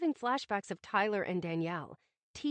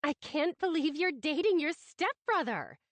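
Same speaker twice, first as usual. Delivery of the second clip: higher, excited gossip squeal; squealing excitedly; 6 semitones higher, 4 dB louder than usual. Acted. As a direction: squeal out the juicy news. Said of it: "Mindy squealed".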